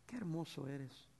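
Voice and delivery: a soft, slow, loving prayer; tender prayer. Retold or imitated. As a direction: pray it gently and slowly. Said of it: "yo digo".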